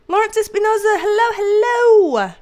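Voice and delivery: high, sustained hello; delighted high-pitched greeting; greeting call. Real, not acted. Calling out greeting to viewer.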